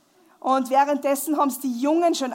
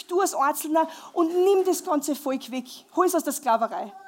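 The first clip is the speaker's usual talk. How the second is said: a lightly voiced God, raised and urgent; a hint of a commanding God, higher-pitched; 4 semitones higher than usual. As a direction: send him back with raised authority. God gives Moses his mission.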